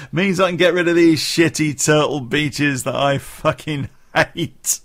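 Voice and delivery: gleeful laughing through the words; laughing gleefully. Real, not acted. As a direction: laugh while you gloat about binning them. Laughing about ditching headphones.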